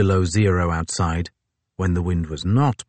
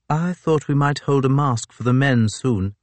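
Fitzjames voice; 6 semitones higher than usual. A narrator's reading.

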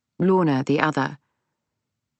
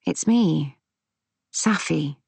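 mild, gentle reassurance; soothing. A narrator's reading. Granddaughter reassuring her gran who doesn't recognise her, soothingly. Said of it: "in a soothing voice".

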